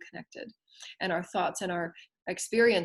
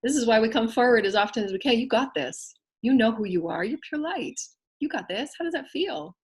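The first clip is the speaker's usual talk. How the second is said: high, bright pep talk to a friend; encouraging voice; 4 semitones higher than usual. Pretend. Spiritual teacher encouraging a student, raised pitch. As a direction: cheer someone on. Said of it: "you empower that with them".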